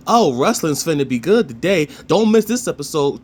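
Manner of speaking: a mocking Triple H hype promo. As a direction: oversell it like a cheesy promo man. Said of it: "he'll also say".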